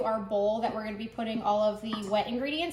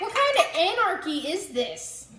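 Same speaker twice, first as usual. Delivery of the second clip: mock outrage; 4 semitones higher than usual. Mock outrage over baking measurements.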